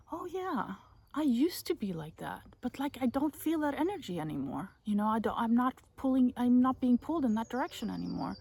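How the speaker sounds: airy and unbothered, past it all; breezy future self. Retold or imitated. Voicing future freed self.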